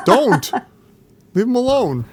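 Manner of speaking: high squeaky laughing plea; mock plea. Teasing a friend by pretending to defend him, squealing and laughing.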